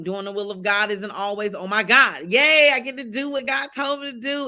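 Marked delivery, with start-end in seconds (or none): 1.5-4.5 higher, lightly gushing cheer; mock excitement. Speaker mimics someone thrilled to do God's will, mock excitement. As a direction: play an eager believer's glee, a little hammed-up. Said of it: "doing the will of God isn't always exciting".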